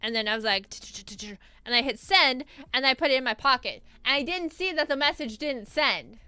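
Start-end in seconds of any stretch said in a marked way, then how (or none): 0.7-1.4 rapid soft tch-tch-tch of texting; imitated typing noise. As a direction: mimic thumbs tapping out a text. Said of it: "like, texting".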